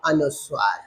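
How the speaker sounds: teacher mouthing the pupils' answer; soft echo answer. Shown as a demonstration. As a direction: say अनुस्वार softly as the students' reply. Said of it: "क्या कहते हैं बेटा?".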